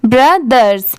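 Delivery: ब्रदर्स said alone, final s sounded; plural pronunciation. Shown as a demonstration. Teacher repeating the plural for learners, model pronunciation. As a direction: clearly model both syllables of ब्रदर्स. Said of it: "तो इसे ब्रदर्स पढ़ेंगे".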